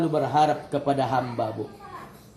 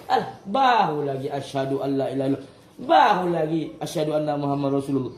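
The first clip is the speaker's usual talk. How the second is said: rushed mock call. Mocking a man delaying prayer.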